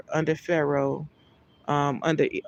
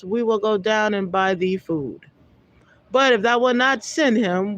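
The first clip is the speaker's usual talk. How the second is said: raised, measured Bible reading voice; scripture reading; 2 semitones higher than usual. Acted. Preacher reading Genesis aloud to his listeners, solemn. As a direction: read the verse out with solemn weight.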